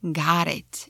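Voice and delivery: got it with a flapped T, American. Shown as a demonstration. A teacher showing American got it. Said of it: "in American".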